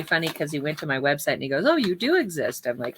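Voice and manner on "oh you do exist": lightly imitated surprise, pitch swooping up; mock surprise. Jail chaplain finding her website, retold in mock surprise. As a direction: imitate someone pleasantly astonished, higher voice.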